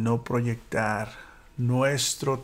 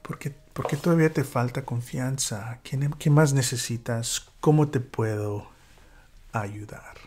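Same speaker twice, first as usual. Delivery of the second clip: kind curiosity. Retold or imitated. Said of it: "un tono de curiosidad, de bondad".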